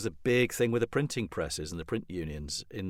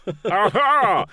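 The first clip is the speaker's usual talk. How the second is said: loud, slow, higher mock "aha"; hammed-up Partridge catchphrase cry; Alan Partridge aha; 10 semitones higher, 10 dB louder, slower than usual. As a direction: ham up the catchphrase, loud and drawn out.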